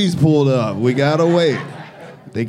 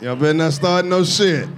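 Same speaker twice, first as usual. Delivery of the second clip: ordinary delivery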